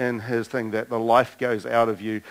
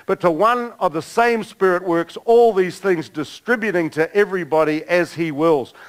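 raised, emphatic scripture reading; 4 semitones higher than usual. Real, not acted. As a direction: read out the list with a preacher's drive. Reads scripture list aloud.

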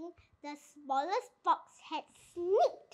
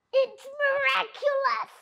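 breathless whisper; 8 semitones higher, 4 dB louder than usual. A narrator's reading. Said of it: "he whispered, fighting for breath".

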